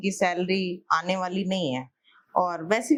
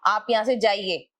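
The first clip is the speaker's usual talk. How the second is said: high, firm order to leave; wife orders the landlord out, angrily; angry dismissal; 4 semitones higher than usual. Acted. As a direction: throw him out, voice pitched up. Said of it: "जब आप गुस्से में आ सकती".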